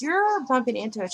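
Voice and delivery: mock sweet annoyance; annoyed but soft-voiced. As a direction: mimic a gentle friend complaining. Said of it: "her voice was still".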